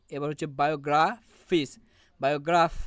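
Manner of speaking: teaching demo, গ্রাফ stressed in বায়োগ্রাফ. Shown as a demonstration. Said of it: "গ্রাফের উপর হচ্ছে stress দেওয়া হয়".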